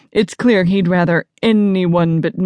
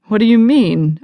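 higher, urgent demand; 4 semitones higher, 4 dB louder than usual. Acted. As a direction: demand an explanation. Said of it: "I demand".

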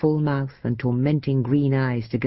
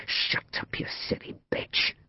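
urgent whispered scolding; hushed rebuke; 8 dB quieter than usual. A narrator's reading. Man silencing his lover so nobody hears, whispered rebuke. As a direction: shush them in a harsh whisper.

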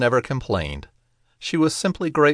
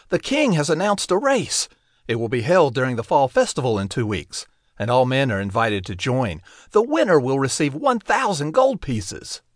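excited; 4 semitones higher than usual. Acted. Eager brother bursts with news.

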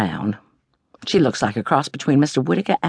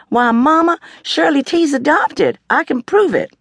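Stella-Rondo's smug voice; 13 semitones higher, 4 dB louder than usual. A narrator's reading. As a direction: raise the pitch and savour the news. Stella-Rondo announcing to Mama.

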